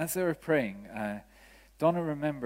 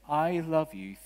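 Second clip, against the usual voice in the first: lightly voiced woman, higher and clear; clear woman's voice; 4 semitones higher, 4 dB louder, slower than usual. Preacher relaying what his wife heard, in a lightly voiced clear woman's voice. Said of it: "woman's voice very clearly saying".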